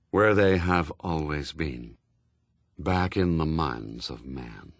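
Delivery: low, slow figure of Death; solemn Death. A narrator's reading. Death answering a question, solemn low voice. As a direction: intone it slowly and low.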